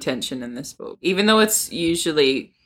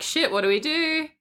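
high, hushed mock panic; 9 semitones higher, 4 dB quieter than usual. Book club friend acting out panicked characters with a mock squeak.

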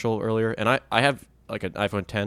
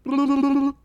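fluttering trilled noise; lip trill warm-up; 3 dB louder than usual. Shown as a demonstration. Host shows the group a warm-up noise, lip trill. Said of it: "everyone make this noise".

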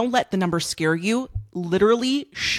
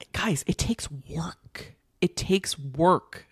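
whisper; 5 dB quieter, much slower than usual. Real, not acted. Confiding aside to the listeners.

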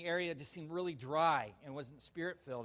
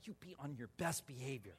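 laughing warning; 3 semitones lower, 8 dB quieter than usual. Retold or imitated. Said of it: "He said".

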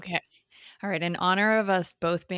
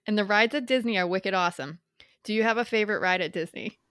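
put-on Boston accent. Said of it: "in my best North Shore Boston accent".

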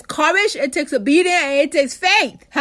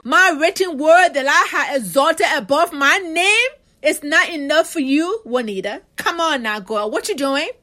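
the Lord scolding. Retold or imitated. The Lord scolding Juanita for wallowing, incredulous. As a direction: voice God chiding a wayward child. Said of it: "the Lord have to look at me like".

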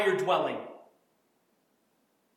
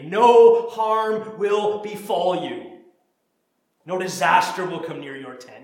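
confident; 6 dB louder, slower than usual. Shown as a demonstration. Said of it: "Wear this verse confidently".

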